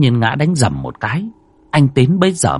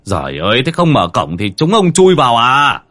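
annoyed neighbour snapping, louder at the end; grumbling curse; 3 semitones higher, 4 dB louder than usual. Acted. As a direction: scold him through the locked gate. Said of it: "một người thò mồm vào chửi".

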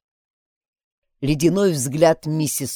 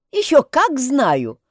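higher, slow insistent protest; indignant retort; 9 semitones higher, 5 dB louder, slower than usual. A narrator's reading. Mary protests that she really knows, indignant. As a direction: insist you do know. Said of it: "возразила Мэри".

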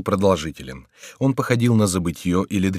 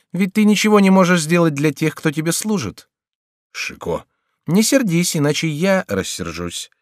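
higher, louder teasing voice; mocking jester Chicot; 8 semitones higher, 4 dB louder than usual. A narrator's reading. Chicot's ghost mocks the frightened king, higher and louder. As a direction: taunt the king like a sly jester.

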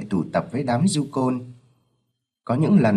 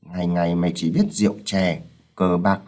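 angry shout; 4 semitones higher than usual. Acted. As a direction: scold the gambler son furiously. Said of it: "Ông Sáu nổi giận quát". (ông bố giận dữ quát)

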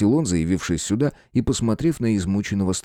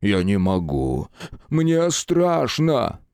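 whimpering fear; much slower than usual. Acted. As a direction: plead like a terrified overgrown child. Big man whining he is scared. (скулит от страха)

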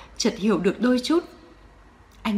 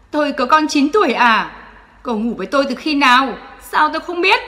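mocking outburst; 4 semitones higher, 5 dB louder than usual. Quân cười mỉa.

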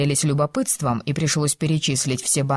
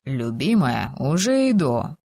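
man's voice; 3 semitones lower, slower than usual. Acted. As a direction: lower male voice calling. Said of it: "мужской голос".

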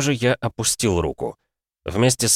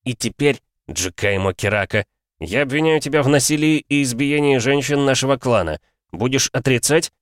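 syllable by syllable; 6 semitones higher than usual. Acted. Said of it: "произнёс я по слогам".

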